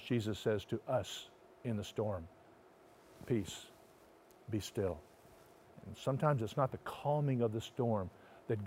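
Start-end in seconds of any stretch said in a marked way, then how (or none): 3.2-5.0 soft, low, hushed command; gentle hush. Acted. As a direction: lower and soften the voice to calm. Jesus speaking to us.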